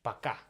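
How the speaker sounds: пока said with stress on the last syllable; пока, the first o reduced to a; Russian bye. Shown as a demonstration. Teacher teaching the Russian word for bye, пока said clearly. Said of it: "in Russian language it will be".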